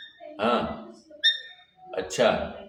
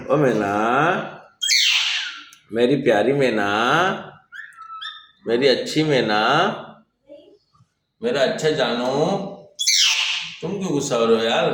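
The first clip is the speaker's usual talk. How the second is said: sweet-talking pet bird; 3 semitones higher, 3 dB louder than usual. Real, not acted. Owner coaxing his sulky pet myna, loud cooing. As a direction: coo affectionately to coax the bird.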